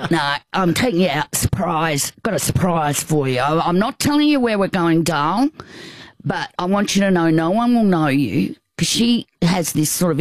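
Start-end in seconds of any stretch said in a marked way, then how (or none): 0.1-8.5 a voice for Sal. Retold or imitated. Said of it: "I always do a voice like that".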